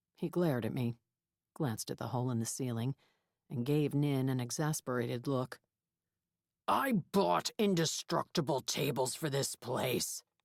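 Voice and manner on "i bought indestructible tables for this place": growling like a bear on every word. Narrator reads the place's owner speaking after a ceiling is broken, voice like a bear's growl. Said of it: "he said in a voice like a bear's growl".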